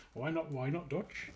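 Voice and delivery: put-on terrible Dutch accent. Retelling what the guy asked, in a bad Dutch accent. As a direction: have a poor go at a Dutch accent. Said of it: "that was a terrible accent".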